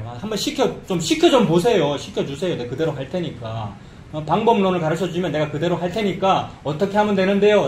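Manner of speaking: mildly acted insistent demand; challenging. Preacher imitating people demanding a method from God, mildly challenging. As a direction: press for instructions, arguing. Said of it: "라고 따지는 겁니다".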